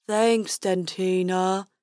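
slow goofy unicorn voice; silly dopey unicorn. Acted.

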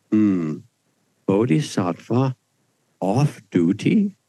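slow, puzzled questioning voice; a hint of the Dalai Lama, slowed and wondering; quizzical Dalai Lama. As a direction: repeat it as a gently baffled question. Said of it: "this quizzical stuff".

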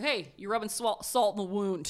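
mock scolding.

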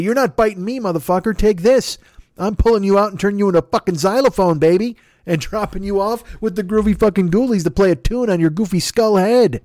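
a hammed-up tough-guy threat to a zombie; mock defiant taunt. Acted fight against zombies.

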